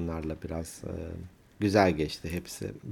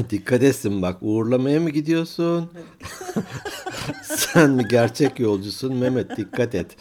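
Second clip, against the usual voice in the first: laughing; 3 semitones higher than usual. Real, not acted. Teasing listener while laughing.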